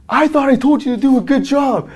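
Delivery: high, loud, hammed-up secretary voice; secretary phoning in a panic, high and loud; secretary's panicked call. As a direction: squeal it like a frantic assistant on the phone. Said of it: "he's like".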